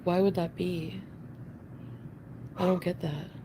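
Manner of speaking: ordinary delivery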